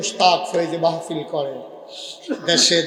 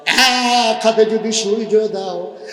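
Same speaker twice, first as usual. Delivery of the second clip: slow, raised chanted declaration; calling out; slower than usual. Retold or imitated. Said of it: "ডাক দিয়া কয়". (ডাক দিয়ে সুর করে বলা)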